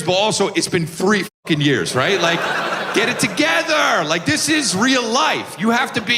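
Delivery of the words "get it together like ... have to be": mock-furious rant. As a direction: shout it like the kid's failing at life. Ranting at three-year-old son.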